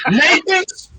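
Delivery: high, loud disbelieving question; can't believe the name; stunned rise on Nathan's; incredulous. Real, not acted.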